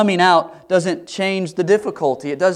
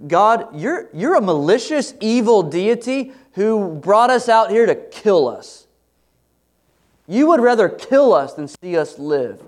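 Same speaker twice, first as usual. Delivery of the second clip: higher, louder, mildly accusing tone; mock accusation; 6 semitones higher, 4 dB louder than usual. Preacher voicing Israelites accusing God, mock indignant. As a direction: throw the blame at God, half-acted. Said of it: "they're basically saying".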